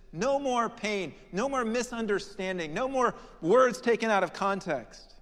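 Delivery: a believer at the end of their rope, crying out in prayer; impassioned pleading prayer. Retold or imitated. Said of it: "How often we have prayed in times of trial and pain".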